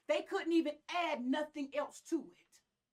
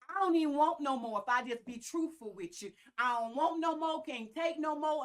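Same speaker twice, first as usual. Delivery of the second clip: southern black accent; 5 dB louder than usual. Real, not acted. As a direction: let the country accent come out. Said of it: "Y'all know I'm from the South. I'm country".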